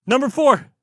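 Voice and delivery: announcing the next point over the rally; loud announcement. Real, not acted. Announcing again while hitting.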